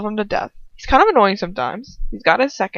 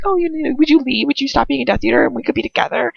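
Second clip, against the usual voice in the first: fast, high mock pleading; mild mock whining plea; mocking her plea; 5 semitones higher, faster than usual. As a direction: parody her begging him to leave.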